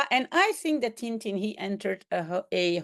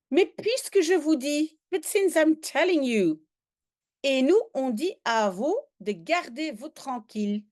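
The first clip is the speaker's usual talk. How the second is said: put-on Chinese accent; 4 semitones higher than usual. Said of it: "trying to imitate, I think, the Chinese accent".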